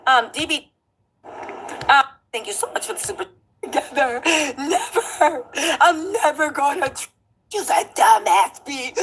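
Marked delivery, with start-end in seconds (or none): 3.6-8.9 mock crying. Mimicking a rapper's rant.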